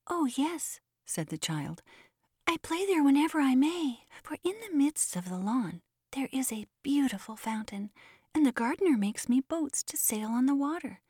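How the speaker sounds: put-on a small boy's high voice begging his father; high and eager, asking a favour; pleading little boy. A narrator's reading. Child answers the demon.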